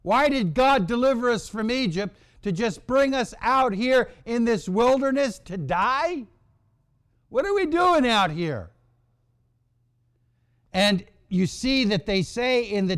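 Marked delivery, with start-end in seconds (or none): 0.0-8.7 lightly voiced grumbling Israelites. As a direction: voice pitched up, a complaining crowd. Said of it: "And they're wondering".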